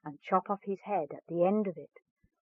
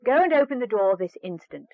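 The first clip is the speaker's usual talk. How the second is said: louder stern stepmother command; sharp order; 3 semitones higher, 6 dB louder than usual. Acted. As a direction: bark it like a harsh stepmother.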